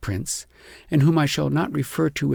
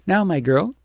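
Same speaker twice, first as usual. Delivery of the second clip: stern shepherdess; 6 semitones higher, 5 dB louder than usual. A narrator's reading. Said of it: "she said".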